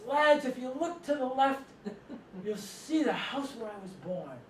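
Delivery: high opening, drawn-out mock announcement; coach on bus microphone. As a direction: imitate a coach addressing the whole bus. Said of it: "he gets on the microphone in the bus".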